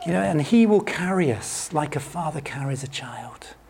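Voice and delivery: softly whispered, slowing down; hushed and gentle; tender hush. Real, not acted. Tender reassurance to congregation.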